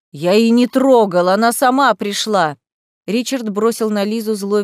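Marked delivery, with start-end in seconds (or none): 0.1-2.6 louder, defensive outburst; loud protest. Acted. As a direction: shout back in protest. Bandit protests loudly.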